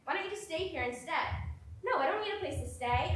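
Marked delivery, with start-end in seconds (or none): none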